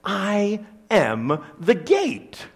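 slow, weighty declaration; bold proclamation. Retold or imitated. Jesus boldly declaring himself to the Pharisees, slow and weighty. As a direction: proclaim it slowly, word by word. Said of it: "boldly proclaims something like".

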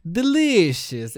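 put-on "Delicious" drawn out slowly in a Peruvian Spanish English accent. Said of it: "like this Peruvian, Spanish, English accent".

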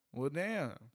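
usual speaking voice

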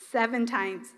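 a hushed repeat of Seven times; soft echo. Shown as a demonstration. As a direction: let Seven times drop into a quiet echo. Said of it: "quiet echo of the count".

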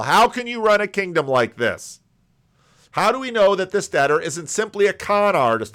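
loud, indignant protest at the master's mercy; outraged objector. Acted. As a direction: rail against it like a scandalised critic. Preacher voices outraged objector.

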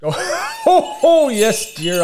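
high chuckling Santa; jolly laughing. Acted. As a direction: laugh through the words. Santa laughs before farewell.

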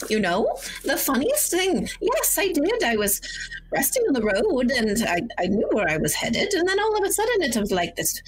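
dotty grandmother telling her tale; lightly voiced granny. Lost grandmother telling the party about the mist, light granny voice.

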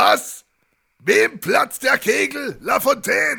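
shouting into the phone, mishearing; half-deaf shout. Acted. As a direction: yell back, confused and hard of hearing. Schwerhöriger Kommissar am Telefon. (schwerhöriges Schreien ins Telefon)

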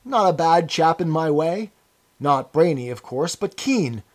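anxious appeal, tags rising for agreement; eagerly appealing. A narrator's reading. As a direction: plead for reassurance from an old chap. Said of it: "began eagerly appealing to him".

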